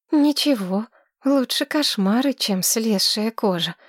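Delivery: put-on high, breathless girl gushing in love; dreamy young woman. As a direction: swoon over him like a smitten girl. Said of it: "хмыкнула Мэтчен Кодерс".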